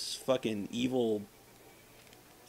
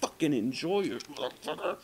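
ordinary delivery

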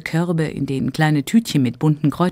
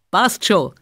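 calling out; 3 semitones higher, 4 dB louder than usual. Acted. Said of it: "ruft Georg der Frau zu".

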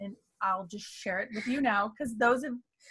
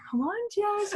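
coaxing; 10 semitones higher, slower than usual. Retold or imitated. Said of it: "I'll just give her a big hug and I'll be like".

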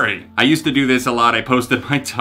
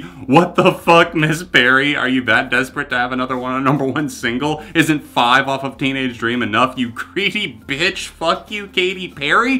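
put-on reading the old post as a heated tirade, slowing on the insults; aggressive rant. Reading his old post about a singer aloud, mock furious. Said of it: "this got so aggressive so quick".

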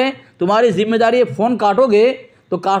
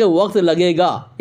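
slow, lower correction ending on "लगेगा"; corrected grammar; 4 semitones lower, much slower than usual. Shown as a demonstration. Debater correcting his opponent's Urdu, slow correction. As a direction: state "लगेगा" slowly as the proper form. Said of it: "ये होना चाहिए".

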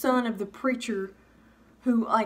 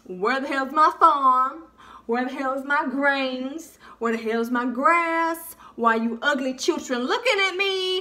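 slow, drawn-out complaint from a chicken; lightly voiced put-out bird; indignant chicken; 3 semitones higher, slower than usual. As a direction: draw out each demand like a baffled chicken. Voicing an indignant, chilling chicken.

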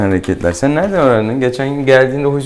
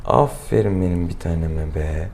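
tender praise; 4 semitones lower, 5 dB quieter than usual. Real, not acted. Vet praising the eating cat.

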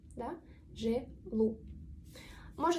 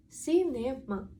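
сінема drawn out syllable by syllable; slow syllable-by-syllable; much slower than usual. Shown as a demonstration. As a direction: say сінема slowly for learners. Slow repeat of example word.

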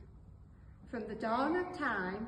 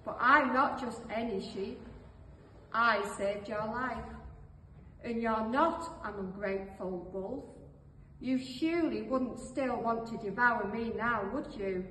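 proud answer. Acted. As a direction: stand your ground with mild pride. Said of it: "the sheep answered proudly".

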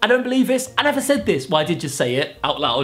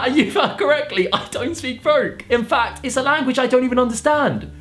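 higher mock-posturing reply; haughty pop star; 6 semitones higher than usual. YouTuber reads Harry AI's reply, higher haughty voice. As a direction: read it as a superior star.

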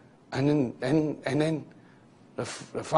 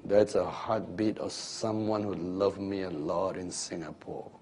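softer, lower, gentle reply; quiet fatherly voice; 6 semitones lower, 9 dB quieter than usual. Acted. The Father telling heaven what the sound is, quietly. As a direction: answer softly, tenderly, like a proud father. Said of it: "the father quietly says".

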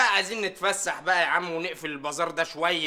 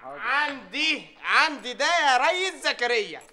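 slow drawled reply; 4 semitones higher, 3 dB louder, much slower than usual. Acted. Tea boy answers slowly.

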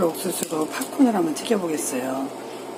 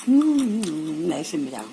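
crunching chips. Real, not acted. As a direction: mouth full of crunchy popcorn. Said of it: "들리시죠? 바삭바삭한 이 소리".

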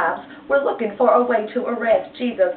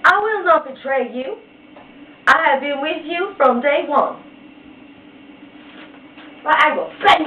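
adamant Peter; 5 semitones higher than usual. Acted. Peter's vow, voiced.

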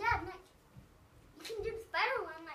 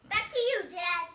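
show host hand-off; 9 dB louder than usual. Pretend. Kid hands off again.

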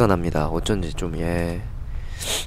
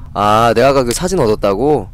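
ordinary talk, nothing marked

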